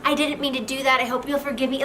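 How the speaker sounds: acted gushing, repeated apology; mock-emotional wife apologizing. Shown as a demonstration. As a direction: plead for forgiveness with hurried repeated sorries. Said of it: "It's really emotional and it's like".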